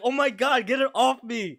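high, panicked disgust; shuddering revulsion. Retold or imitated. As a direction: squeal to get it off. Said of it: "I'm like".

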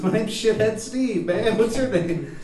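high, loud, bad Baltimore accent; shitty Baltimore accent. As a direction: introduce yourself in a hammed-up Baltimore accent. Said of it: "shitty Baltimore accent".

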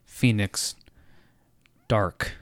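slow breathy whisper; dramatic whisper. Retold or imitated. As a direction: hush it out like a secret name. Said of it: "he's like".

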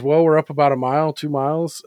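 a hint of an eagle answering, a little quick; lightly voiced eagle replying. Eagle answers the frog, lightly voiced and quick. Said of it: "And the eagle says".

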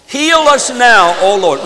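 loud, high call leading a congregation in prayer; praying aloud. Real, not acted. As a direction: cry the prayer out to God. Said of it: "pray that prayer".

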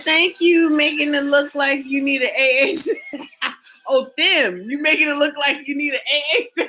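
laughing quote. Retold or imitated. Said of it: "He said".

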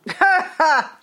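bursts out laughing; big hearty laugh; loud laugh. Real, not acted. Laughing at the punchline.

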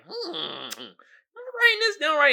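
lightly voiced, slow cartoon note-taker; mock-studious slow mumble; imitating cartoon writer. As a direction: draw out a high, pondering hum. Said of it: "He's like".

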